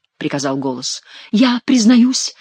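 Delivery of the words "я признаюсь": high, slow, drawn-out confession; hammed-up penitent announcement; fake king confessing. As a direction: declare it slowly as the mock king. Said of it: "продолжал мнимый Генрих".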